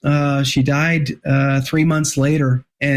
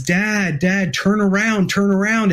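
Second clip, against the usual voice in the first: son urging dad; 6 semitones higher than usual. Retold or imitated.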